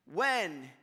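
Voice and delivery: "when" set apart, falling, with a pause after; stress on when. Shown as a demonstration. Preacher showing it is when, not if, stressed "when". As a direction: land firmly on "when" and let it hang.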